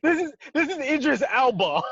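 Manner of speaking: high-pitched mock British accent; Idris Elba. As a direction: introduce yourself in a put-on British accent. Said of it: "They gonna expect that British accent".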